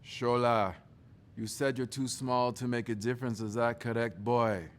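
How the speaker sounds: lightly voiced stern father questioning; a father calmly cross-examining his son; dad's voice. Father questioning his son's claim, lightly stern.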